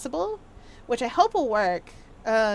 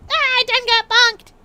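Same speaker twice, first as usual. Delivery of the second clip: excited; 11 semitones higher, 8 dB louder than usual. Acted. Game character exclaiming.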